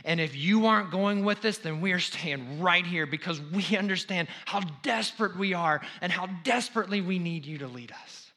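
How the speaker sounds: fervent preacher plea; desperate plea. Acted. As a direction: plead with desperate need. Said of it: "In other words".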